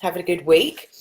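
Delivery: hoarse, tired voice; slightly husky from overuse. Real, not acted. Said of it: "you must excuse my husky voice".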